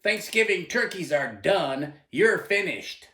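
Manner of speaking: slow, mildly corrective nun-teacher retort; imitated teacher's retort. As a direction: lightly imitate a teacher correcting a pupil, unhurried. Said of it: "She would retort".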